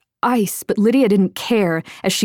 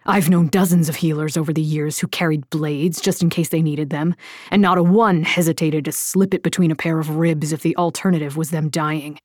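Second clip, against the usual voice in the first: a hint of a lower man's voice, arguing; lightly voiced gruff Killian; 3 semitones lower than usual. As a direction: Killian laying out hard facts, only lightly voiced.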